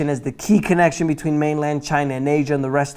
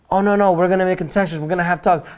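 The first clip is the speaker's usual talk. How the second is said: higher, quicker mock reassurance; mock optimism; 4 semitones higher, faster than usual. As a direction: play the eager negotiators, lightly hammed-up. Mocking see-sawing trade negotiators.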